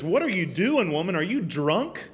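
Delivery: mock-incredulous questioning with swooping pitch; lightly acted indignant questioning; incredulous scolding. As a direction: imitate a taken-aback rebuke. Acts out Eli scolding Hannah.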